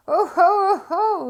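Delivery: high, loud gloating oh ho; triumphant cry. Acted. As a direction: crow with delight. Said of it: "he cried".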